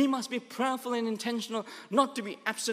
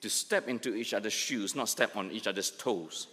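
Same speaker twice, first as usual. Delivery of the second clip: lower, each word of "to step into each other's shoes" laid out slowly; 9 semitones lower, 5 dB quieter than usual. Shown as a demonstration. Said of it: "let me say that slowly".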